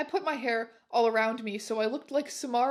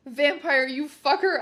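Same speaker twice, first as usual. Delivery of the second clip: loud, higher angry snap; angry outburst; 3 semitones higher, 6 dB louder than usual. Acted. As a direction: lash out while slapping. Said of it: "I said, slapping him".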